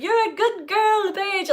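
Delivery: high-pitched imitation of an Irish man; a man's voice in an Irish accent, imitated; Irish landlord's accent. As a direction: mimic an Irish landlord, lifted well up.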